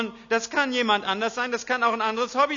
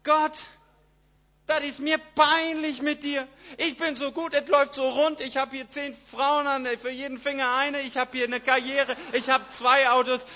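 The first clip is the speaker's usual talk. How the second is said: smug self-admirer; 2 semitones higher than usual. Acted. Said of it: "Dass sie sagen".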